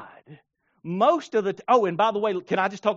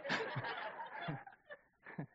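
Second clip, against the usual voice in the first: high, loud little yelp; mock yelp; 8 dB louder than usual. A person missing the fisherman's money, a high loud yelp. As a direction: yelp as you miss the money. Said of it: "and you're like".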